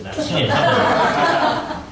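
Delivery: high, slowed words breaking into laughter; laughing mock request. Believer asking God to look away for a tantrum, laughing. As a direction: laugh through a joking request.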